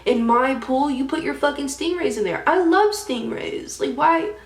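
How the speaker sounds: high, loud outraged rant; acted fury. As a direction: retell it as an indignant, incredulous outburst. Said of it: "I got so furious".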